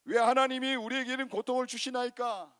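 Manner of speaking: 높고 큰 소리로 따지듯; 하나님께 대드는 외침; 따지는 항의. Acted. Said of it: "하나님께 오히려 따지는 거예요". (고통을 두고 하나님께 높게 따지는 항의)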